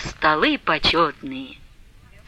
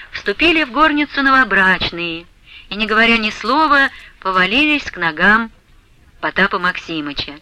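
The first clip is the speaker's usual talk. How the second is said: usual speaking voice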